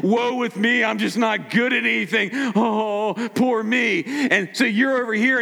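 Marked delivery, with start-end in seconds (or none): 0.0-4.0 lightly mocking gloomy moan, a touch higher; a hint of a self-pitying Eeyore; mild mock misery; mopey Eeyore. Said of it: "the Eeyore Christian".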